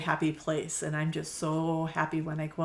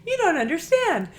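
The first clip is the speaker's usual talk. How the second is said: imitated Texas accent, higher and louder; 12 semitones higher, 9 dB louder than usual. Magazine caller correcting the shop owner, Texas accent. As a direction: play the sweet Texas magazine gal with a Texas accent. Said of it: "she has this Texas kind of accent".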